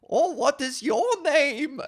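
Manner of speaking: high, loud, slow put-on voice; creepy hovering actor voice; weirdo character voice. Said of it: "being like".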